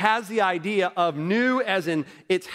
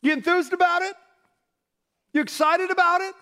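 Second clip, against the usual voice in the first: lively raised-voice questions; excited; 11 semitones higher, faster than usual. Shown as a demonstration. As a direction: sell the enthusiasm. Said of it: "enthusiasm shown by raised voice".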